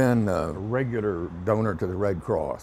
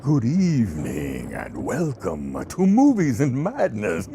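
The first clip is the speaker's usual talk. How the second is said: horror host; 3 dB louder than usual. Acted. Horror host opening his show.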